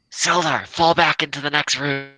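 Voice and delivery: shouting across the room; calling from far away. Pretend. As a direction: call out to an ally in another room. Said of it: "I'll shout over to Sildar and be like".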